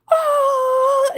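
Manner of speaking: loud, high yelling in pain. Retold or imitated. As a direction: yell it out through the sting. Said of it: "I was like".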